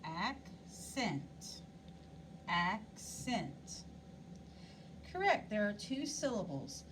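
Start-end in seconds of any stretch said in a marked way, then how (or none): 0.0-3.8 "Accent" split in two, AC held longer; stress on first syllable. Shown as a demonstration. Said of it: "we said the first syllable longer and louder and higher".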